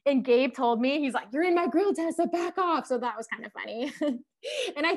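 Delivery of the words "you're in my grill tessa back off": higher, louder retold warning; mock telling-off. Guide warns climber crowding him, mock telling-off. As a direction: playfully imitate the guide ordering space.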